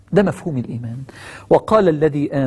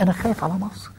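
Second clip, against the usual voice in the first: tender worry; 3 semitones higher, 7 dB quieter than usual. Acted. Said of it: "شفت بيقول لهم إيه؟".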